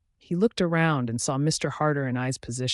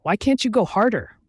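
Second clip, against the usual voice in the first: mock frustrated scream-moan, higher and louder; yell-moan it in fake frustration; hammed-up frustrated scream-moan; 8 semitones higher, 5 dB louder than usual. A narrator's reading. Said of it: "I scream moaned in frustration".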